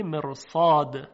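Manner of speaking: slow مرصاد with a heavy R; heavy tafkhim R. Shown as a demonstration. Teacher names the next example word, heavy R in مرصاد. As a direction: stretch مرصاد, thickening the ر before the ص.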